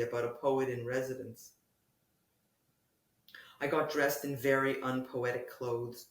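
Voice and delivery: measured prose reading with lifted openings and falling phrase ends; literary reading. Acted. Poet reads hospital piece to the interviewer, literary reading. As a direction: read it as a poet, pausing between phrases.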